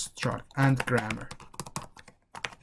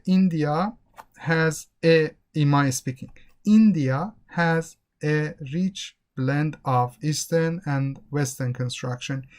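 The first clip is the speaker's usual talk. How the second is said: stiff word-by-word delivery; robotic speaking. Shown as a demonstration. Teacher showing students unnatural speech, robotic. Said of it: "It is like a robotic".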